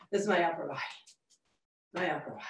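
quiet, lifted tone trailing off. Shown as a demonstration. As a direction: let it float off lightly and quietly. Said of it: "that sure feels a lot better".

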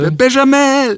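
high, slow, booming name call; grand announcer. Pretend. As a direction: announce it like a champion. Announcing nickname.

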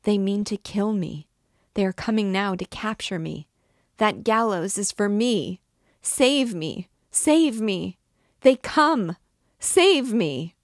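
rising to loud, high screams for help; desperate girl screaming to be saved; desperate terror. A narrator's reading. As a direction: panic builds to a shriek. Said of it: "replied the desperate girl".

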